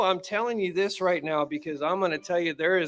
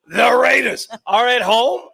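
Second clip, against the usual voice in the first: surprised; 5 semitones higher, 8 dB louder, slower than usual. Real, not acted. Mock disbelief at the pick.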